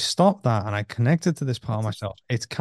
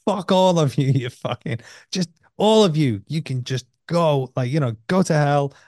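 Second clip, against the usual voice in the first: venting anger; 4 semitones higher than usual. Retold or imitated. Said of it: "I was, like, in it then".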